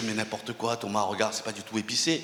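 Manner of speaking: soft, smooth, fake reassurance.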